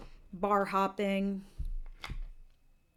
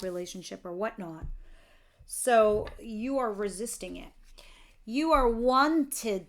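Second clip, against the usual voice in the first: ordinary talk, nothing marked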